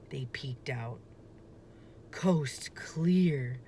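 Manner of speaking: whispered, hiding from danger; hushed whisper. A narrator's reading. Boy checking the coast is clear, a hushed whisper. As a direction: keep it barely audible so the monster won't hear.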